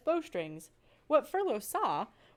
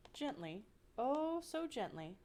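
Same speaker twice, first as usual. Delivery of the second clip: soft and tender; 4 semitones higher, 6 dB quieter than usual. A narrator's reading. Narrator lingers on gentleness.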